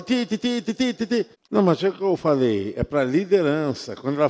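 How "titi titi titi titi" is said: ringtone imitation. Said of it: "tocando o celular".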